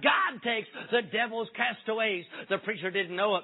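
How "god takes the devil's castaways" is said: shouted refrain, slow and ringing; mock preacher's cry. Whitfield crying to his London tabernacle, ringing mock shout. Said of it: "the preacher cried".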